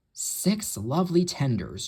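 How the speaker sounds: slow, gloating mild chortle; chortling. Acted. Henry gloats over the promised tenders, mild chortle. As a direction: savour each word with glee. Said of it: "chortled Henry".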